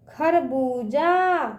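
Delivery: slow खरबूजा, बू held long; drawn-out long ū. Shown as a demonstration. Teacher drilling children, खरबूजा with drawn-out ū. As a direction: stretch out बू in खरबूजा. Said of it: "इसका उच्चारण ना खींच के करते हैं".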